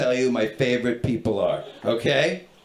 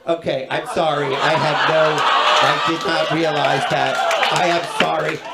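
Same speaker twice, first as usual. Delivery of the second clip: measured, overcareful contrition; stiff apology. Retold or imitated. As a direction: act a gate agent carefully backtracking. Gate agent apologizes, corrected.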